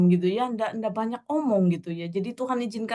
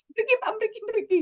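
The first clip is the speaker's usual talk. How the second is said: imitated calling out; 12 semitones higher than usual. Retells calling the vendor over.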